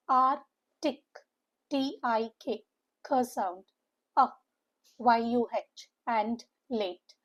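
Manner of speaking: "artic" slowly in pieces, then spell "T I K" and "Y U H"; syllable-by-syllable breakdown. Shown as a demonstration. Teacher breaking articulate down for students, syllable by syllable. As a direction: break "artic, T I K, K sound, A, Y U H, and late" into separated chunks with pauses. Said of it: "with a stress on second syllable".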